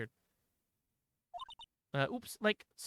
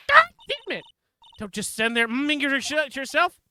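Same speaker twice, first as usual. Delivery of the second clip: very high, loud, slowed angry yell; furious outburst; 8 semitones higher, 10 dB louder than usual. Acted. The prosecutor loses it at the stalling witness, yelling angrily. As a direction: explode in frustration.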